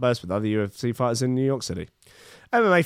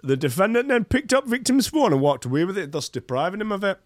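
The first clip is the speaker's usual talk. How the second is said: Miami accent; 7 semitones higher than usual. Shown as a demonstration. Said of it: "I'll do the Miami accent".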